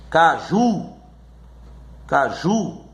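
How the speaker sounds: "caju" with a long, firm final JU; ca-JU, leaning on the ending; teacher showing the strong last syllable of "caju"; stress on last syllable. Shown as a demonstration. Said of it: "a última sílaba é a mais forte".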